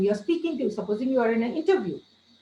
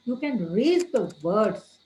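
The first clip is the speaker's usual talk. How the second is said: each word in "raise the words" leaned on slowly; slow emphatic words; slower than usual. Shown as a demonstration. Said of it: "You raise the words is when you want to emphasize".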